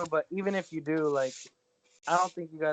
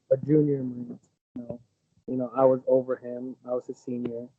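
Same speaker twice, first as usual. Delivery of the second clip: muffled, like through a wall; 4 semitones lower, 3 dB louder than usual. Real, not acted. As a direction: speak as if muffled behind a wall. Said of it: "You sound muffled".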